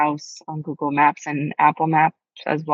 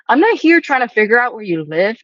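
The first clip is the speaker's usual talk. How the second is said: imitating the stranger; 6 semitones higher, 5 dB louder than usual. Quoting odd stranger on path.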